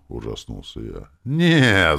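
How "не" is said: plain reading voice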